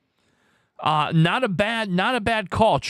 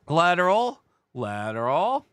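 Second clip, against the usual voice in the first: playful calling out. Pretend. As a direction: call for someone who may be lurking. Calls out to a lurking viewer.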